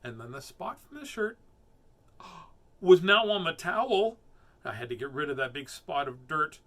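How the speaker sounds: put-on measured, animated children's storytelling; expressive storybook narration, stressing key words; story reading. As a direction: read it to kids with lively swings. Reads a rhyming story aloud.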